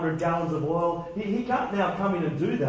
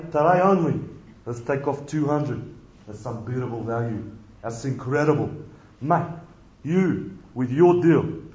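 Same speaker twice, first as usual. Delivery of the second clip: lightly voiced slick dealer, offering the bonus deals; preacher acting the salesman talking to his master's debtors; greasy car salesman; 4 semitones lower than usual. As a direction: push the bargain like a shonky salesman. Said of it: "this kind of greasy used car salesman".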